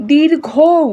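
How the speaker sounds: দীর্ঘৌ with the final vowel held; long vowel. Shown as a demonstration. Teacher demonstrating a long vowel, দীর্ঘৌ drawn out. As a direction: stretch out the end of দীর্ঘৌ. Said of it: "উচ্চারণ করতে বেশি সময় লাগছে".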